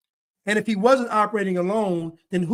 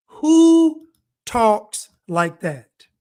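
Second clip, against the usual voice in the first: incredulous drawn-out question; 6 dB louder, much slower than usual. Real, not acted. Mocking the stilted texts.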